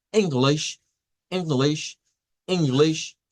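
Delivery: English with the same relaxed short I in both syllables; two short I sounds. Shown as a demonstration. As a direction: model English with two lax I vowels. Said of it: "usando dos veces ese sonido". (English con la I corta en las dos sílabas)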